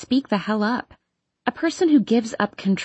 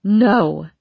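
forced shout; 5 dB louder than usual. Acted. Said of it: "The word claws its way up my throat".

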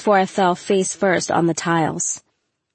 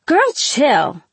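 tag; 6 semitones higher than usual. A narrator's reading. Friend intervening in a fight.

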